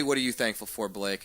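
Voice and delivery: mocking sarcastic ask. Shown as a demonstration. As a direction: say it with a sneer. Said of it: "Like, sarcastically".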